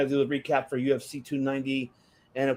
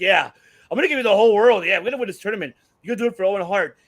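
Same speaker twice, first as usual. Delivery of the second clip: raised, louder voice imitating a promoter's big promise; mock promise; 4 semitones higher, 6 dB louder, faster than usual. Imitating a promoter promising a wrestler the world, mock promise. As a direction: play the eager promiser, lightly voiced. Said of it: "promised him the whole world, like".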